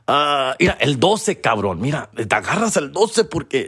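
a light coach voice; lightly voiced coach naming number twelve; coach pointing. Coach assigning number twelve, lightly voiced. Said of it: "number eleven be like".

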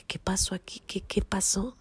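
hushed, confused questioning; bewildered. Retold or imitated. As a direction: murmur it softly to yourself, stunned. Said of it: "confundidísima". (confusión en voz bajita)

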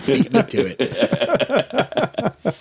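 very slow, laughing through words. Real, not acted. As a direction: drag it out mid-laugh. Laughs, beaten to the joke.

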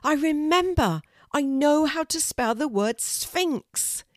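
high and loud, bursting with the answer; excited shout. A narrator's reading. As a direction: shout it out, suddenly remembering.

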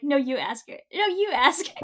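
mock back-and-forth, pitch jumping up on the repeat; retold nervous bickering.

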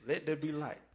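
measured, solemn scripture reading; James Earl Jones. Acted. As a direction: recite it like a grand voice-over. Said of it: "Okay, James Earl Jones".

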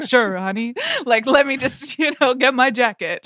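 lightly voiced Southern crooner; a hint of a rock-and-roll idol; casual mock rock-and-roll-idol reply to a girlfriend. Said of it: "Does he talk to Kaya Gerber like this?".

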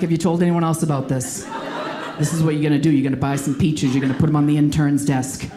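mafia. Retold or imitated. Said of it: "I got all mafia about it".

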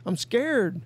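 high, slow, pleading mock fright; scared boater. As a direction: drag it out high like a frightened man refusing. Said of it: "And he goes".

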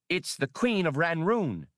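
high, awed reveal of the name Queen; Skinks the scholar. A narrator's reading. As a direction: announce the discovery with hushed wonder.

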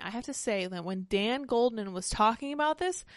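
breathless, labored voice; struggling for air between words; out of breath. Real, not acted. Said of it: "I sound super breathless".

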